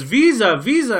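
high, loud repeated demand; hammed-up border clerk pressing the point; insistent clerk. Passport clerk demanding a visa, hammed-up loud insistence. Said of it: "she goes".

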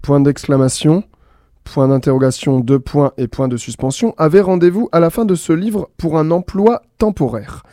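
bright storyteller reading with voiced punctuation marks; lively story reading. A narrator's reading. A radio host reads the punctuation story aloud, lively. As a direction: read the tale playfully to listeners.

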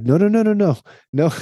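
high, loud mock protest; hammed-up objection to the lovers; emphatic no. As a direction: yell no at the screen, half joking. Audience shouting at the couple.

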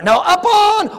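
high, loud, slow upon; preacher's emphatic shout; shouted correction. Real, not acted. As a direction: hammer the word upon. Correcting excuses.

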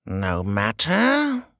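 slow, loud dismissal; dismissive king. Acted. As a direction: wave it away. King voice held.

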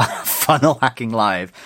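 slow, deliberate funnel hacking live; careful correction. Real, not acted. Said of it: "Just nearly swore".

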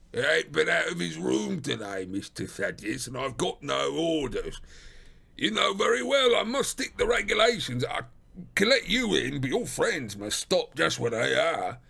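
gruff, stubborn doorkeeper; McMurdo. Acted. Porter refusing to let the friends in, gruff and stubborn. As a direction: refuse firmly in a rough working man's voice.

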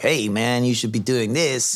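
mock a laid-back American adviser in a weak American accent; bad American accent. Mocking a US consultant telling him how to treat staff, in a bad American accent. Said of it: "What, you have to use an American accent?".

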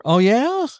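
quick "Oh, yeah?" shooting high on "yeah"; high, rising "Oh, yeah?"; questioning. Shown as a demonstration. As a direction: ask "Oh, yeah?" with a steep rise. Versus takes of one phrase.

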